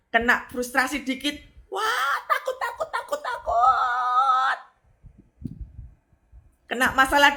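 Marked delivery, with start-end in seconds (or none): 1.7-4.6 high, laughing mock panic; a hammed-up frightened whimper, much higher; mock fright. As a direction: squeal the fear like a scared believer. Mocking a fearful believer.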